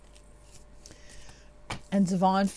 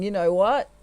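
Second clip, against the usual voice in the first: laughing, teasing. Retold or imitated. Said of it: "Divine Masculine's kind of laughing, going".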